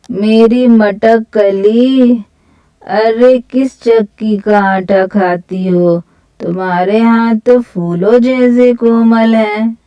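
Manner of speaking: drawn-out leering tease, lightly voiced; slow, teasing ruffian's come-on; teasing rogue. Sheru flirts mockingly with Chanda, teasing rogue.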